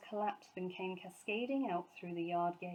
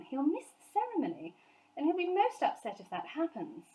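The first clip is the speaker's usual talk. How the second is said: much higher, louder worried mother; fretting mother, pitched up; Mrs Brown's voice; 8 semitones higher, 4 dB louder than usual. A narrator's reading.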